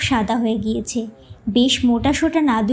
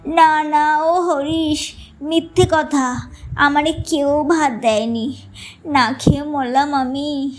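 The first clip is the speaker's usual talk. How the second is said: put-on whining old man; slower than usual. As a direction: plead like a wronged child. Grandfather whines, denies eating.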